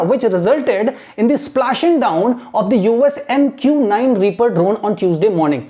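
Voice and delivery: very slow, careful reading aloud; teacher reading for imitation; slow model reading. Shown as a demonstration. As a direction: read slowly for students to copy. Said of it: "imitate करना है".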